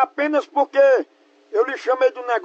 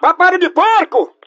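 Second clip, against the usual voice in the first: loud, slow mocking insult; slow taunting shout; 4 semitones higher, 7 dB louder, slower than usual. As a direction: drag out the insult loudly. Prank caller shouts insult. (xingamento gritado e lento)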